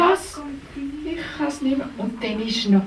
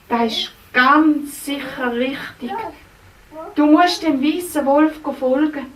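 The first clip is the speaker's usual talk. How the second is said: kindly helper Racontino; 3 semitones lower than usual. Acted. Racontino comforting the princess, lower and gentle. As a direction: talk gently to the lost princess.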